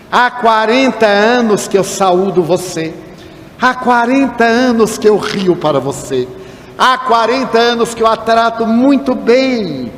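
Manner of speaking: cobrança pausada e enfática; reclamação indignada. Retold or imitated. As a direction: desfie a queixa devagar, frase por frase. Cobra a amiga de longa data. (queixa indignada, em tom de cobrança)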